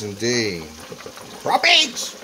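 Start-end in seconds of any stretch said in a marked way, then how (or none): 1.4-2.2 excited. Real, not acted. Excited about fish.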